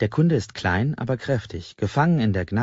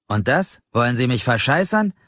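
indignant outrage; 5 semitones higher, 4 dB louder than usual. Acted. Angry customer confronts clerk.

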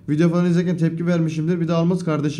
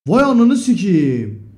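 louder, drawn out slowly; slow amazed curse; 5 dB louder, much slower than usual. Real, not acted. Streamer amazed at a viewer's loyalty, slow loud curse. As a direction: savor the disbelief.

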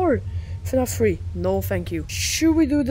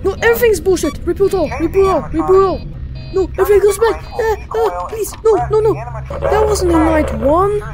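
panicked yelling; 3 semitones higher, faster than usual. Real, not acted. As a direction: panic as it all resets. Panic as game resets.

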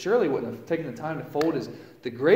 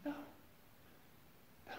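stunned denial; 24 dB quieter than usual. Retold or imitated. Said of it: "And I was like".

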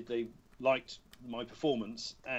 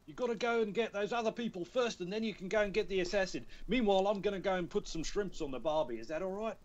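high-pitched Australian mentor patter; Australian accent; 8 semitones higher, faster than usual. Acted. Playing the game's mentor for the hosts, high Australian accent. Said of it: "you know the Australian says".

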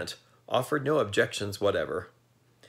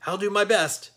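high, eager little horse voice; willing and keen to please; cheerful sawhorse; 11 semitones higher, 4 dB louder than usual. A narrator's reading. Sawhorse cheerfully promising Jack, lightly voiced and high. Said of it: "returned the sawhorse cheerfully".

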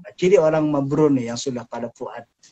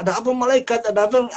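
higher, louder eager calling out; eager crowd; 9 semitones higher, 4 dB louder, faster than usual. Acted. People in hell call eagerly to the visiting angel. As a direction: call out to the angel, hopeful and loud.

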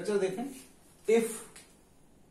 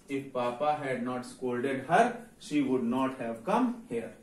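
slow dictation; 2 semitones lower, much slower than usual. Shown as a demonstration. Teacher dictating the English sentence.

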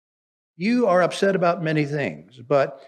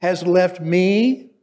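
loud, higher and slow, aggrieved; indignant complaint; 3 semitones higher, 7 dB louder, slower than usual. Acted. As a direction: demand it like an overworked sister. Martha complaining about her sister.

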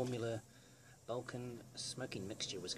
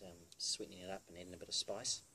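talking around pipe stem; clenched teeth on pipe; pipe in mouth. Real, not acted. Seen 0: Pipe stem clenched in mouth from 0.6s through most words.

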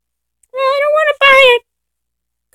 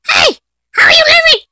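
higher-pitched incredulous yell; exasperated shout; 4 semitones higher than usual. Real, not acted. Player to zombies still alive, shouting in exasperation. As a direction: shout it at enemies that will not die.

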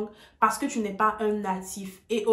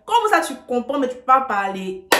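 louder, incredulous challenge; indignant louder question; exasperated retort; 5 dB louder than usual. Real, not acted. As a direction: push back in disbelief. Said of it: "désolée de crier".

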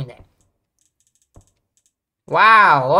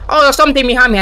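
scared; 5 semitones higher, 7 dB louder, much faster than usual. Real, not acted. Something behind him in game.

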